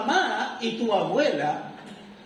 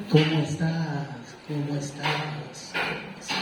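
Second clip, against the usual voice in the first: fading echo; 4 semitones lower, slower than usual. Retold or imitated. Echo answering from the hill.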